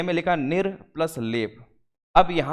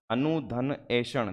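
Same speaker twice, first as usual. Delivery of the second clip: अनुधन ऐषण spoken slowly and a little softer; slow split reading; 2 semitones lower, 4 dB quieter, much slower than usual. Shown as a demonstration. Teacher to students showing the split, slow and soft. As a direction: drag out each part, quietly. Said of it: "यहाँ पर हो जाएगा".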